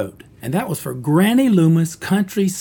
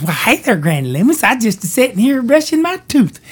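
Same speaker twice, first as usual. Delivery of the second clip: put-on hick girl voice; 7 semitones higher than usual. Girl answers Granny in a higher country voice. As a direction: play a simple country girl. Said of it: "And this girl says".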